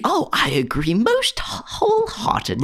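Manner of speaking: a mock-grand British accent, overdone and high; bad British accent. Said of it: "in your bad British accent".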